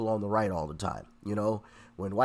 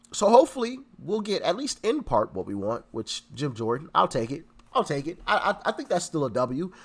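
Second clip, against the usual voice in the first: stuffy nose. Real, not acted. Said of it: "sorry about my sniffling and probably terribly sounding voice".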